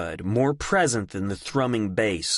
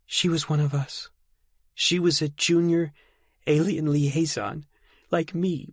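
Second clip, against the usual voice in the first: put-on higher, lighter girl voice; young woman voice; 7 semitones higher than usual. Delphi's voice in dialogue.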